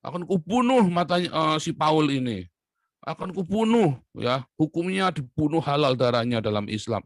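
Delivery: mock threatening rant. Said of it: "hate speech oleh Nasrullah di T V One".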